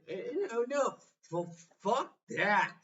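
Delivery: breaks off with a loud high outburst; loud defiant rejection. Real, not acted. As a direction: snap back defiantly. Snaps out of mock apology.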